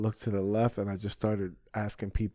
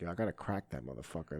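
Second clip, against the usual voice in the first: inner thought; 6 semitones lower, 12 dB quieter, faster than usual. Retold or imitated. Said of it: "So I was like".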